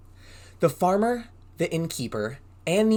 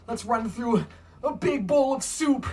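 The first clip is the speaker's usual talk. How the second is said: tag; 8 semitones higher than usual. Pretend. Play-acts plunging into soup.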